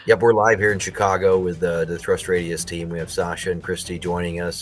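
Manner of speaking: upbeat live-report delivery, a bit fast; news anchor voice. Acted. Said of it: "like, news anchor voice?".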